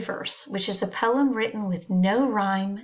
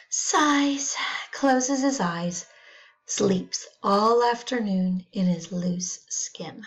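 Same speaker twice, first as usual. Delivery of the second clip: poem reading. Acted. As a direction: let it drift off to sleep. Reads the Dog poem.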